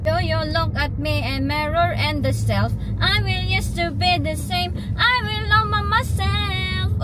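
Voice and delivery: loud near shouting through laughter; mother exclaiming loudly at her own look; loud laughing talk. Real, not acted. Loud laughing over self.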